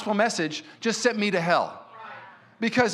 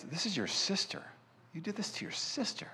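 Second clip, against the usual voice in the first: stern dad; 14 dB quieter than usual. Retold or imitated. Stern dad confronts son.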